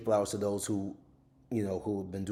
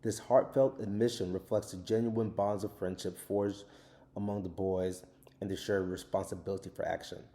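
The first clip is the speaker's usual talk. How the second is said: reading from his book. Real, not acted. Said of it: "what I write in the book is".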